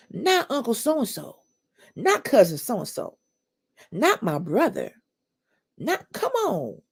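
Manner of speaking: lightly voiced disbelieving relative; a hint of scoffing denial; mock family denial.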